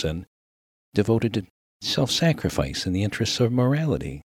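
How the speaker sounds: lightly voiced, wordy formal minister. Minister simplifying his question for a miner, mildly formal. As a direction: feel carefully for the grander phrase.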